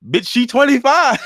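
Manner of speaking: loud, very high comic yell; incredulous outburst. Real, not acted. Reacting to the twenty-five card line, incredulous yell. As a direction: shriek it in disbelief at the obvious.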